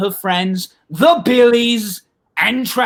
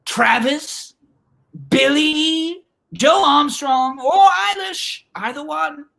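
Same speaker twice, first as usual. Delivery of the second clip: high, searching calls to missing friends; calling out; 6 semitones higher, slower than usual. Acted. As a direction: call into an empty building, drawing out names. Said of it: "Hadas calls out".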